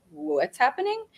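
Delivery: high, stunned question; panicked. Retold or imitated. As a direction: gasp it out in shock. Retold panicked freeze moment.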